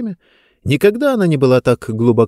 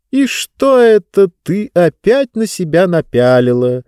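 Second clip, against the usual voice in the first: stern mother voice; 7 semitones higher, 4 dB louder than usual. Acted. Mother scolds Diba.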